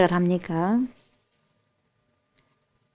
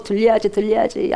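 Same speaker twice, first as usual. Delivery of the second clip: ordinary talk, nothing marked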